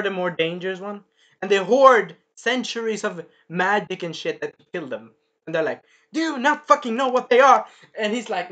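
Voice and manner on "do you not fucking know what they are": loud, higher angry demand; Carmilla's rage. Retold or imitated. Carmilla demanding an answer, loud, higher and angry. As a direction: snap the question in anger.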